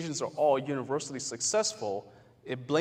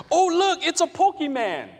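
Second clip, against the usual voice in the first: much higher and louder excited call; mock shout; 8 dB louder than usual. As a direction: call out to friends in the park. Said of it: "one person over here shouts".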